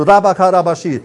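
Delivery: fluent, flowing glossolalia; praying in tongues. Real, not acted. Preacher praying in tongues before the congregation, flowing and fervent. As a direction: let the tongues pour out steadily.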